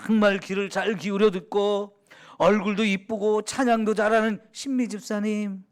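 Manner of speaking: mock formal prayer tone on a friend; overdone ceremonious address; stilted flowery address. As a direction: recite flattering titles as if praying aloud. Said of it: "이렇게 말해야".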